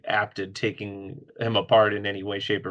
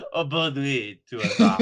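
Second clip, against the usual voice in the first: mock French accent; 3 semitones higher than usual. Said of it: "French accent".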